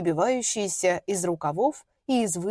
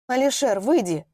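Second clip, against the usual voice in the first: firm, forcing steadiness; 3 semitones higher than usual. Acted. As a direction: keep the voice from shaking. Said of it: "стараясь, чтобы её голос не дрожал".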